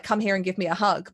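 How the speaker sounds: mildly insistent order for a hug; a touch of bossy big sister; forcible demand. Acted. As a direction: press the invitation as a command. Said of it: "forcibly, like".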